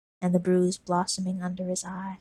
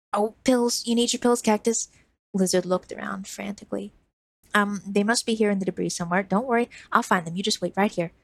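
put-on a scared kid scrambling to fix it; frantic young boy; 2 semitones higher, 3 dB louder than usual. Lizard panicking, searching.

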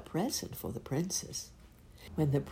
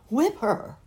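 loud, high harsh answer; loud blunt prince; 7 semitones higher, 8 dB louder than usual. Acted. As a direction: bark the answer out.

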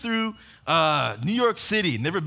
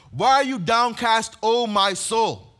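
preached lament; 3 semitones higher, 6 dB louder, slower than usual. Retold or imitated. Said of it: "He goes".

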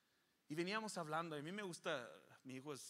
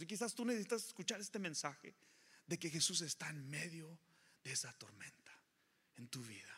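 rising preaching; 3 semitones higher than usual. Real, not acted. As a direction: lift and drive the message home. Preacher building to congregation.

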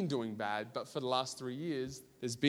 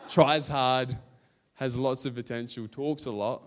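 laughing through it; 6 dB louder than usual. Real, not acted. Laughing over old school reports.

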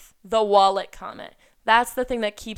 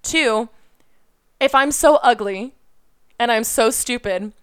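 pissed off. Real, not acted. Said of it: "Man, I sound so fucking pissed".

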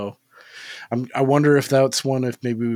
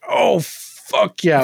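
loud, drawn-out hyped cheer; retold burst of excitement; hyped reaction; 7 semitones higher, 5 dB louder, much slower than usual. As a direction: stretch it out in high, loud glee. Retelling own excited reaction.

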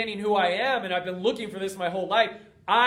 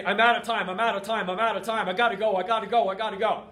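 desperate panic; much faster than usual. Retold or imitated. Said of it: "You are desperate".

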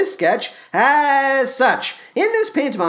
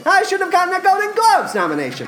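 a hammed-up, self-important star voice pitched higher; Matthew Broderick impression; 3 semitones higher than usual. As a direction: play a vain film star plugging coffee, lightly put on. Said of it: "for Matthew Broderick to do".

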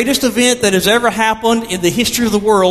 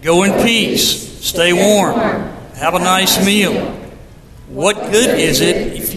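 measured, solemn reading of scripture; 3 semitones lower than usual. Acted. Pastor reads James to the congregation, measured and solemn.

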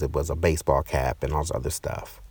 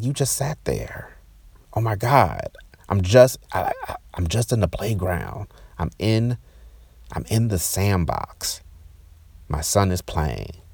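raised pitch, disbelieving reproach; retold indignation; 3 semitones higher than usual. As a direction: confront them in exasperated disbelief. Retold angry confrontation with the woman.

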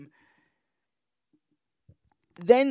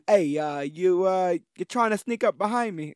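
bad Brooklyn accent. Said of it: "I'm doing a terrible voice now. I'm doing, like, a British, uh, Brooklyn voice".

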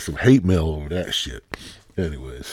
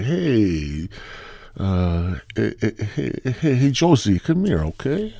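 put-on terrible Mexican accent; 2 semitones higher than usual. Host calling Josie the housekeeper over, bad Mexican accent. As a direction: call out in a badly faked Mexican accent. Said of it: "forgive my terrible Mexican accent".

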